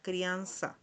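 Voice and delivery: crianza with an S sound, "kree-AN-sa"; Portuguese pronunciation. Shown as a demonstration. Teacher shows learners the word, crianza said with S. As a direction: model crianza with S for the z. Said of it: "se pronuncia de esta manera".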